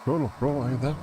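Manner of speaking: calling out. Acted. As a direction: call out across a distance. Calling out for missing friend.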